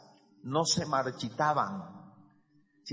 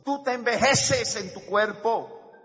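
slow, raised voice building to a loud peak; emphatic preaching; 7 semitones higher, 6 dB louder, slower than usual. Real, not acted. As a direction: stretch it out and drive it home loudly. (prédica enfática, lenta y fuerte)

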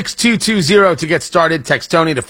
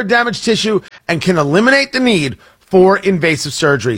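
brisk, emphatic sponsor read; radio ad read. Acted. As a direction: sell it like a radio spot. Reads a sponsor advertisement.

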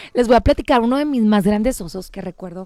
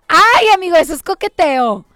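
playful knowing tease, louder; louder playful gotcha; teasing; 5 semitones higher, 5 dB louder than usual. Real, not acted. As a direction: call it out with a grin. Teasing about flirting.

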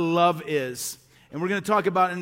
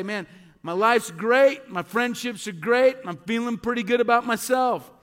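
higher, upbeat self-satisfied voice; self-confident; 4 semitones higher, 3 dB louder than usual. Acted. Pastor voices people who wake up feeling great, upbeat. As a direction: act out someone pleased with themselves. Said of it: "there's another side of things".

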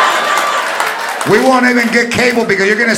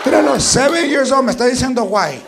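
ranting grandma; 3 semitones higher than usual. Acted. Grandmother ranting about child.

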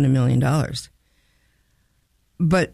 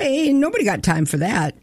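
mock-excited interviewee, pitched up; imitated excited boy; 5 semitones higher than usual. Retelling the boy's viral interview line, mock-excited. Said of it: "He was just so excited".

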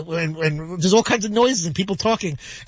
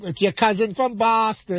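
mock Boston accent; 5 semitones higher, slower than usual. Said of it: "making fun of, like, the, the Boston accent".

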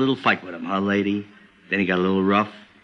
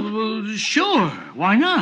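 mocking high humouring; 13 semitones higher, slower than usual. Cop humours the couple.

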